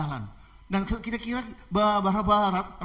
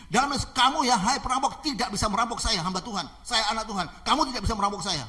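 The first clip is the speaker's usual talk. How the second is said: raised, insistent rebuke; bold faith declaration; 4 semitones higher than usual. Acted. Pastor telling robber he cannot rob him, bold. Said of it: "dia menggunakan dengan iman".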